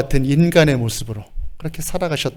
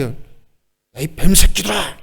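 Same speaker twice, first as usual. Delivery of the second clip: put-on indignant rebuke; displeased scolding; 2 semitones higher, much slower than usual. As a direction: spit out the insult in displeasure. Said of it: "언짢게".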